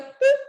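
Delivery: short, high, loud "boop" noise; dismissive mouth pop. Retold or imitated. Guest shows how people abroad react, dismissive little pop. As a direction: pop out a quick mocking "boop".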